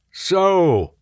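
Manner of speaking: loud bawling shout; bawled. A narrator's reading. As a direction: bawl it at the recruits. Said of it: "bawled Astro".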